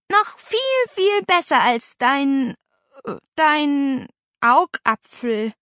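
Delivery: high, slow, drawn-out coaxing; flattering. A narrator's reading. Niece flattering her aunt, coaxing. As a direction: lay the flattery on, hesitating over the word. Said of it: "schmeichelte Paula".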